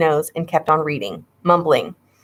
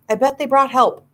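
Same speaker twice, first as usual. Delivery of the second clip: excited; 7 semitones higher than usual. Acted. Kids hoping for rescue.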